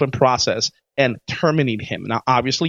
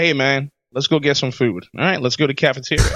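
put-on South Buffalo accent; 2 semitones lower than usual. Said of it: "I like the accent you give".

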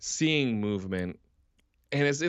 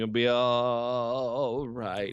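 mock soothing. Acting friends calming a tripper.

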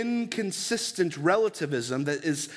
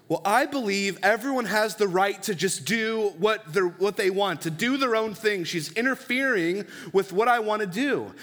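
put-on defiant teen; 5 semitones higher than usual. Teen explains his view.

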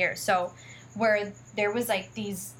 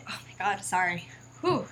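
choked up; 3 dB quieter than usual. Real, not acted. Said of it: "Take a deep breath".

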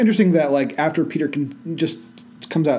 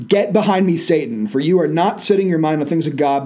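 raised, louder stern rebuke; exclamation-point rebuke; 2 semitones higher, 3 dB louder than usual. Shown as a demonstration. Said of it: "it's an exclamation point".

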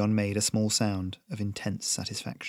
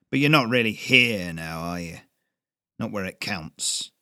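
put-on knowing old smith. A narrator's reading. Old smith lectures boy.

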